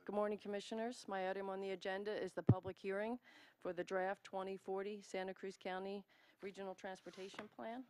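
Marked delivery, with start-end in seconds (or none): 0.1-6.0 louder, projecting to the room; speaking up. Real, not acted. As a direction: raise your voice so all can hear. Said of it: "Can you speak up, please?".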